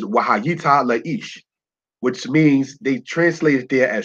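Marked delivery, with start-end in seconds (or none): 0.0-1.4 "Wahayita Laish" spoken very slowly; teaching the Hebrew words slowly; Hebrew phrase. Shown as a demonstration. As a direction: stretch out "Wahayita Laish" syllable by syllable. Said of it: "The Hebrew that you see there says".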